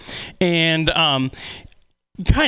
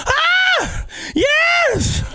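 high, far mock squeal of delight; kids screaming. Sixth graders losing it over the idea, squealing.

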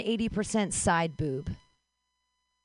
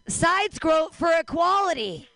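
rally shout; 8 semitones higher than usual. Acted. Rally chant for equality.

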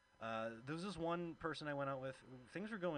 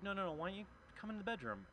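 mock coaxing date; 8 semitones higher, faster than usual.

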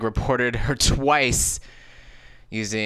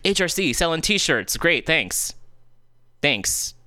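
sarcastic, pitched way up; 8 semitones higher, slower than usual. Retold or imitated. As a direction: sneer a high, mock thank-you. Mocking the HRC storefront.

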